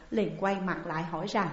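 ordinary delivery, nothing marked

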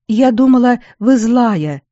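blurting it out at once; blurted. A narrator's reading. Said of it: "выпалила она".

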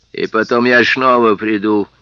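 a lisping, menacing voice; slushy lisp. Acted. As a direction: speak with a wet lisp. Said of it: "своим странным шепелявым голосом".

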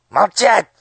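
very high, very loud shriek; shrieked command. A narrator's reading. Master of ceremonies silences the pages with a shriek. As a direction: shriek for silence like an enraged old courtier. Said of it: "взвизгнул церемонимейстер".

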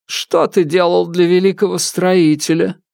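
stern widow. Acted. Widow questions ghost.

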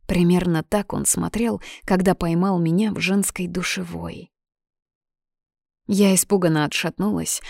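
ordinary delivery

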